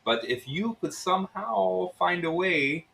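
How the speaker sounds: Russian innkeeper coaxing them into a scheme; Russian accent. Acted. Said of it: "it's Russian".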